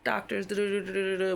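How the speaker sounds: mock cheerful nurse voice; reassuring staff. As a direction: talk up the doctor brightly. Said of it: "they're like".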